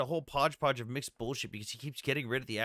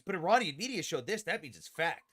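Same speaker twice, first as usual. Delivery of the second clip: high-pitched mocking quote; imitating credulous opponent; 6 semitones higher than usual. Host mimicking an opponent trusting Iranian media, mock insistent. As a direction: parrot the opponent's certainty in a raised pitch. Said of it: "And then he goes".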